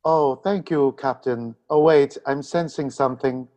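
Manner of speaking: lightly voiced empathic counselor; Deanna Troi. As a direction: play the counselor suddenly sensing something. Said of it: "I am Deanna Troi".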